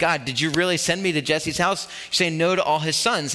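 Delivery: ordinary talk, nothing marked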